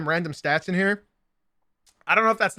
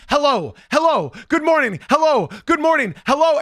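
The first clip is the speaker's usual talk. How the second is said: higher, louder sing-song mock hello; mocking greeting; 8 semitones higher, 6 dB louder than usual. Mimicking Adolfo's repeated good mornings, mocking sing-song. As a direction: parrot the pest's greetings mockingly. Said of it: "this guy that just keeps saying".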